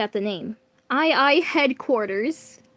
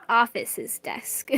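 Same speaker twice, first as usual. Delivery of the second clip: whispering; slower than usual. Real, not acted. Whispered self-correction aside.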